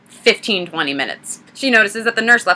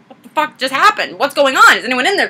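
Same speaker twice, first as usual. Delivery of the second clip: higher-pitched retold bewilderment; lightly alarmed fisherman; 5 semitones higher than usual. Fisherman calling to Daisy after the explosion, mock alarm. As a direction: imitate a startled bystander calling out, lightly.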